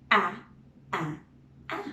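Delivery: wide-mouthed short A sound, repeated; saying ahh. Shown as a demonstration. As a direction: open wide and say a. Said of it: "Would you like to try?".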